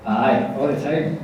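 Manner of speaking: slow Scottish answer with a laugh; Scottish accent. Acted. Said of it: "did you ever have a Scottish accent?".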